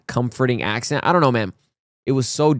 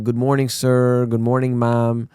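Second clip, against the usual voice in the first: lightly imitated Filipino English greeting; a level, polite Filipino-accented greeting; a hint of a Filipino accent. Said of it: "he loved the accent".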